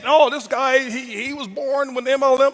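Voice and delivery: lightly put-on voice of a sceptic; mimicking a doubter. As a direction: imitate someone making excuses. Mimics doubters' excuse about him.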